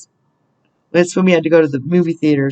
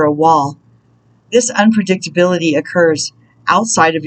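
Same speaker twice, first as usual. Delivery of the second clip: measured, deliberate reading with spaced phrases; read-aloud spiritual message. Real, not acted. Reader guiding listeners through a roadblock, measured inspirational reading. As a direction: read it out as guidance, pausing between thoughts.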